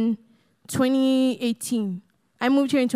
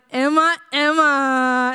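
dramatic calling out; 4 dB louder, much slower than usual. Retold or imitated. Mock dramatic Nigerian call.

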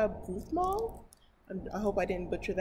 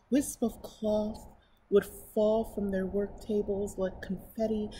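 story narration; 3 semitones higher, 5 dB louder than usual. Acted. Reading a picture book to her viewers, storybook narration. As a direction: read it aloud to children.

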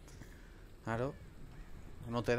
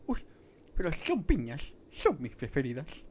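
higher and louder goofy sloth voice, retried; Ice Age sloth impression; 4 semitones higher, 4 dB louder than usual. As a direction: have another go at the sloth voice, pitched up. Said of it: "¿Cómo era?".

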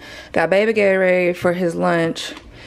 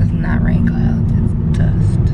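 whispering; 3 dB louder than usual. Real, not acted. Insisting about dust, hushed.

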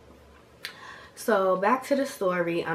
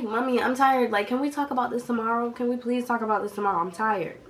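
higher, hurried whiny pleading; imitated pleading; 5 semitones higher, faster than usual. Tired daughter begs mom to wait, imitated pleading. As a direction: beg quickly, winding down tired.

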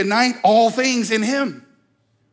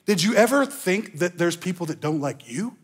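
usual speaking voice

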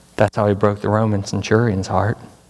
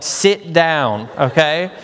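nurses' order; 5 semitones higher than usual. Retold or imitated. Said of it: "the nurses were like".

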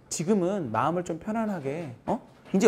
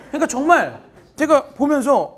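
laughing; 8 semitones higher, 7 dB louder than usual. Real, not acted. Recalls the panicked student texts.

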